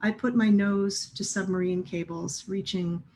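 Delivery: measured poem recital with pauses between lines; poetry reading. Acted. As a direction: read it as verse, phrase by phrase, each line set apart. Reads own poem aloud.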